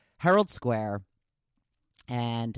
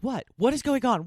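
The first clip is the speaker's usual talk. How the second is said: lightly voiced baffled husband, higher pitch; startled husband; 10 semitones higher, 3 dB louder than usual. Husband asks what the screaming is, startled. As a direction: imitate a husband alarmed by sudden screaming.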